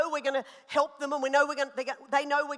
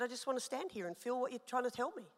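quiet prayer; 9 dB quieter than usual. Retold or imitated. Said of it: "And I said".

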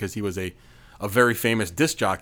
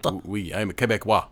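Québécois French. Pretend. Co-host plays along as Québécois.

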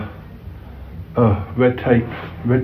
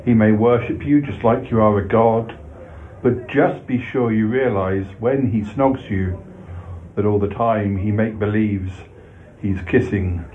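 rhythmic comic poem reading; poem recital. A narrator's reading. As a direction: recite it with bouncy verse rhythm.

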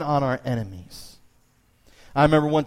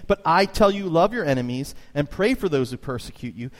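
preaching; 3 semitones higher than usual. Shown as a demonstration. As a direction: proclaim it like a pulpit preacher. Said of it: "I'm gonna start preaching soon".

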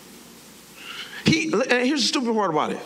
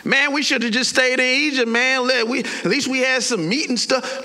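grumbling, raised-pitch protest; whiny group grumble, pushed higher; complaining; 5 semitones higher than usual. Acted. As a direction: gripe like a fed-up crowd. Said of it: "they start complaining the same way".

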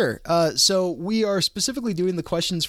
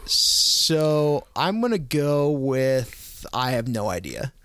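whispering; 2 semitones lower, much slower than usual. Real, not acted. Stalling for an answer.

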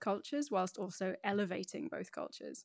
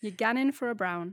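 louder Geordie "gannin'" with a flat A; Geordie accent; 2 semitones higher, 6 dB louder than usual. Shown as a demonstration. Guest repeats the phrase for the host, Geordie accent. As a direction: Geordie "You gannin' for a brown?" as a pub invite. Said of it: "if you wanna do it truly in the accent".

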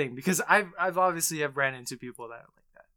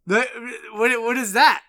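weirded out; 9 semitones higher, 12 dB louder, slower than usual. Real, not acted. Incredulous at trans attraction claim.

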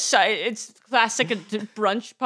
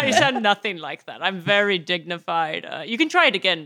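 put-on dignified British accent; British lord; 4 semitones lower than usual. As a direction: play a very dignified English lord.

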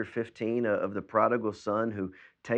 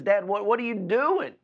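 high, loud, whiny protest; indignant older brother; 11 semitones higher, 8 dB louder than usual. Retold or imitated. Older son confronting his father at the party, indignant whine. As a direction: voice the sulking son, pitched up and outraged.

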